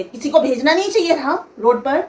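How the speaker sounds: lightly imitated haughty reproach; quoting the rude mother-in-law again, mild mock attitude; showing attitude. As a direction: toss the line off with a touch of arrogance. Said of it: "नहीं, तेवर दिखा के".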